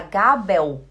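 "Gabel" ending in a W, like "gabéu"; wrong final L. Shown as a demonstration. Teacher showing the wrong way, L as U. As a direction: let the L of "Gabel" slide into U. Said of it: "aí fica errado".

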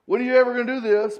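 lightly hammed complaint about waiting three years; mock complaining. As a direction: act out the grumbling believer. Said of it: "it's not complaining".

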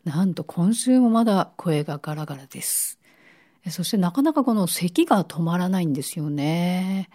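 raspy voice from a cold; hoarse, worn-out voice with a cough. Real, not acted. (ガラガラ声)

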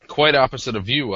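sticky mouth, words gummed up; mouth full of peanut butter. Real, not acted. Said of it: "do I have, like, peanut butter in my mouth?".

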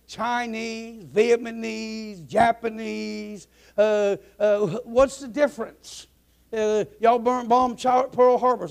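high, slowly listed mock brush-off; acted dismissiveness. Jewish pilot brushes off the co-pilot's correction, dismissive.

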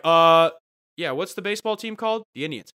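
bright, quick eager voice that lands high on the yeahs; mock eager celebrity. Celebrity on local radio, faking eager love for the team. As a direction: fake enthusiasm to win over the city. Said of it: "That I would be like".

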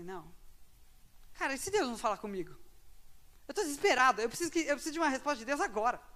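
fast, rising anxious plea; desperate pleading. Retold or imitated. Young student alone, anxious for an answer from God. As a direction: spill it out in a panic.

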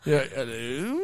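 midnight radio voice. Pretend. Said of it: "Midnight Radio voice".

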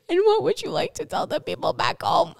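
high bright reporter voice through laughter; chirpy interviewer. Retold or imitated. Interviewing the lady, high and chirpy. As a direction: play the cheery interviewer holding back tears. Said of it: "I was just like".

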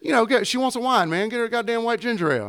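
high, fast, pushy customer imitation. Bartender mimics a pushy customer ordering wine, high and fast.

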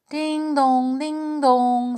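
high, held bell notes; chiming clock voice. A narrator's reading. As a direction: chime it like a clock. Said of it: "said the clou".

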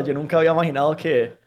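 ordinary talk

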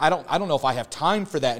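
quick, laughing hesitation; laughing excuse. Retold or imitated. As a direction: brush it off with a laugh. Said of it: "And you're like".

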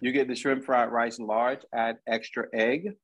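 talking through a mouthful of food; chewing while speaking; mouth full. Real, not acted. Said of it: "I got my mouth full".

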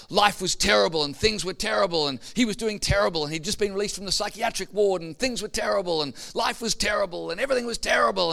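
mock a man going on and on; imitated endless complaining. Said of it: "he went on and on and on about".

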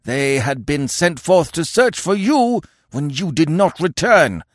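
sustained high, loud tirade; hateful, accusing yell. Acted. Warriors accuse Conan of betraying them, yelling with hate. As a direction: pour out the charge at full pitch. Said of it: "A yell of hate and accusation".

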